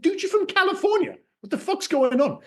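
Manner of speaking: high, exasperated disbelief; incredulous retort. Retold or imitated. A fan mocking Jeff Bridges' accent, incredulous and high. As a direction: squeak out your disbelief at a friend. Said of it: "I was like".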